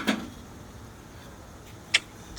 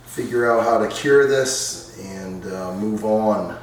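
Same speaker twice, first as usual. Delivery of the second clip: earnest mealtime prayer; saying grace. Real, not acted. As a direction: pray over the food sincerely. Saying grace before dinner.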